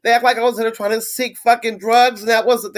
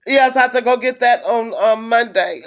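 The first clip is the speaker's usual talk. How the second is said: crying; 2 semitones higher than usual. Real, not acted. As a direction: voice wet with real tears. Crying over ignored back pain.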